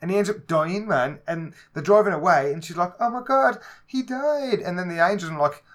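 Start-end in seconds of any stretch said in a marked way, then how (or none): 3.0-4.6 high, loud hammed-up gasp of shock; mock shocked heroine. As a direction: parody her overblown dismay. Mimicking character's reaction in film.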